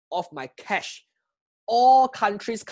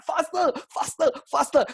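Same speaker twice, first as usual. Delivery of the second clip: urging on; 8 semitones higher than usual. Retold or imitated. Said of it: "I didn't shout it loudly".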